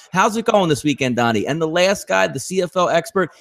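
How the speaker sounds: Drew Martin impression. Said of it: "can you please do an impersonation of me".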